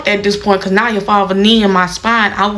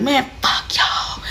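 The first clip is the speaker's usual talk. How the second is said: retold cussing; 6 semitones higher, 6 dB quieter, slower than usual. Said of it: "cussed everybody out and was like".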